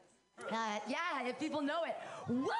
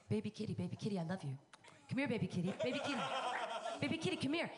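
put-on baby talk to cat; faster than usual. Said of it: "I'm constantly saying".

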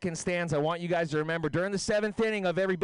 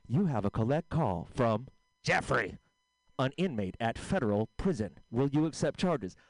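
lower, flat recorded-message read; automated operator; 4 semitones lower than usual. Retold or imitated. Prison phone system announcing a collect call, mock recorded voice. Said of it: "Jeff Calls Bill".

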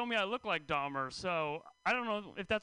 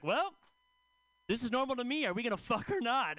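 casual guy; 4 semitones higher than usual. Retold or imitated. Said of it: "And the guy's like".

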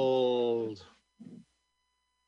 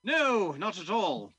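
put-on young man; 6 semitones higher, 7 dB louder, slower than usual. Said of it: "said the young man".

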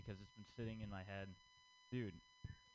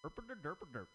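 mock Indian singing; 6 semitones higher than usual. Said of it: "And the Indian part".

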